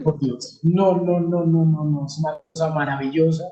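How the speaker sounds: ordinary talk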